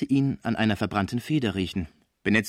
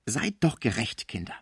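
appeased. Acted. Cibot asks her companions to be fair, soothed. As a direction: ease off, drawing the words out. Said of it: "sagte besänftigt die Cibot".

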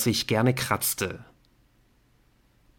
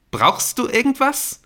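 much higher, combative challenge; aggressive; 14 semitones higher, 4 dB louder than usual. A narrator's reading. Dan aggressively challenging Nick, much higher voice. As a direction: Dan spoiling for a fight. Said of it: "fragte Dan angriffslustig".

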